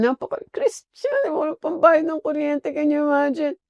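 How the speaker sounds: mock ironic. Real, not acted. Mocking comment.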